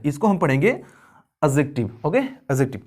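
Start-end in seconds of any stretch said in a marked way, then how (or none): 0.7-1.9 एडजेक्टिव, D dropped before the J sound; silent D. Shown as a demonstration. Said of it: "ये जो डी है ना ये silent है". 2.2-2.8 एडजेक्टिव, D dropped before the J sound; silent D. Shown as a demonstration. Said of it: "ये जो डी है ना ये साइलेंट है".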